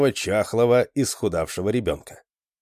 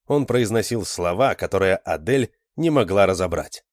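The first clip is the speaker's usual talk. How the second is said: plain reading voice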